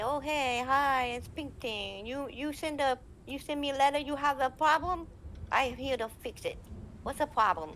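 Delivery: put-on high, accented older-woman character voice; cheery greeting in high-pitched put-on Chinese accent; Ping Ting. Admin greets a player in character, high put-on accent. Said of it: "as the character painting".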